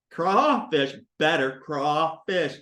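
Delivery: "crawfish" with a long AW for the AY. Shown as a demonstration. Teacher trying the easier word, deliberate. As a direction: open up the first syllable of "crawfish". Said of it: "I say crawfish".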